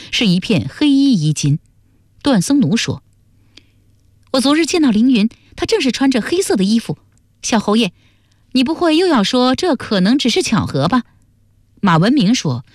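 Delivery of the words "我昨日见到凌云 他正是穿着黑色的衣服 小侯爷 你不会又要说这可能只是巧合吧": high-pitched, pressing accusation; challenging character voice. A narrator's reading. Duan Sengnu confronting the marquis over black clothing, high and challenging. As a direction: press the point in a raised pitch.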